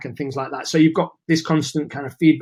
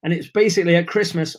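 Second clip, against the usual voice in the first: losing voice. Real, not acted. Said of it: "I'm losing my voice".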